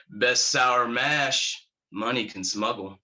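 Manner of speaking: slow Texan officer's drawl; drawn-out Texas twang; Texas accent. Acted. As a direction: offer it in an easy Texas drawl. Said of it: "thick Texas accent".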